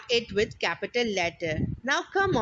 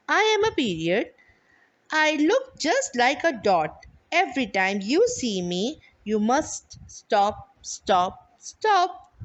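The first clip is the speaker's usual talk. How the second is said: poem recital. Shown as a demonstration. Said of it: "picture of a full stop with a small poem".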